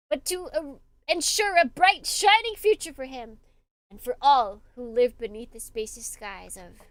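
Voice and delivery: earnest, rising letter reading; letter read aloud in character. Acted.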